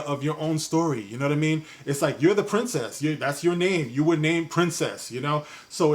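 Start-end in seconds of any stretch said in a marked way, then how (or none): none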